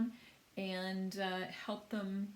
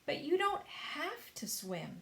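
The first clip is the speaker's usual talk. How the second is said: calm; 7 semitones higher than usual. A narrator's reading. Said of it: "said James calmly".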